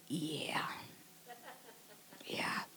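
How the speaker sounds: faint, falling murmur of yeah; barely said yeah. Retold or imitated. Answering her husband's compliment, barely audible. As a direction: let it almost vanish. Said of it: "all I can say is say".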